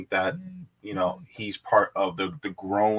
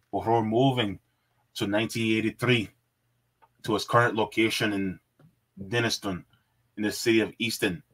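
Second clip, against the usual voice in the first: put-on Scottish accent while reading; 3 dB louder than usual. Shown as a demonstration. Streamer reads out a Glasgow co-op description, playful Scottish accent. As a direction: read it in an amateur Scottish accent. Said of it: "I had to do my Scottish accent there".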